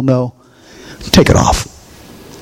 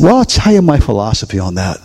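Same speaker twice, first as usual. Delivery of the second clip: mildly gentle, lower tone; retold loving reply; 4 semitones lower than usual. Pastor recounts answering the bride-to-be, mildly loving. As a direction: say it lower, with a touch of kindness. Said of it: "I said to her very lovingly".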